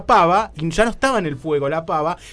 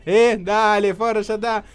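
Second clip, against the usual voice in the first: louder irritated taunting; mock anger; 4 semitones higher, 4 dB louder, slower than usual. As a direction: dare the prankster to show up. Insulta al bromista. (provocación enojada al bromista)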